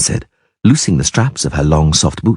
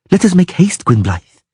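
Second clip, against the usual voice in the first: dryad voice; 12 semitones higher than usual. A narrator's reading. Dryad's formal voice.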